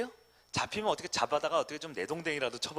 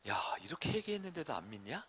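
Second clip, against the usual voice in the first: God's voice; 2 semitones higher than usual. Acted. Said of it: "라고 하는데".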